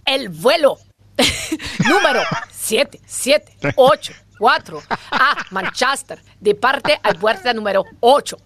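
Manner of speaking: choppy airport computer announcement in Spanish; chipper text to speech voice. Retold or imitated. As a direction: read it like a flight-gate robot. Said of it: "in dieser Computerstimme". (fröhliche Computeransage-Stimme)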